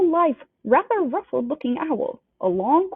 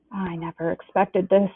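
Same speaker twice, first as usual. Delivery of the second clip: low worried; 2 semitones lower than usual. Acted. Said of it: "in a low, worried voice".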